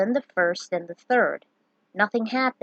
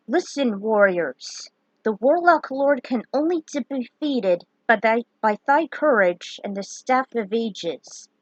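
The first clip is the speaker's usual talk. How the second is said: solemn wizard. Acted. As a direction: intone it like an ancient sage. The wizard image speaks.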